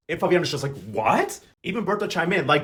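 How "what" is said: incredulous question, pitch shooting up at the end; mock disbelief. Fabiana reacts to the news about her aunt, mock disbelief. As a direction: act out a stunned reaction.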